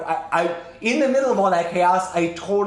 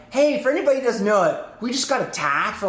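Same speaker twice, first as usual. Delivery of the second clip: urgent announcement; 6 semitones higher than usual. Retold or imitated. Announcing attack on main comms.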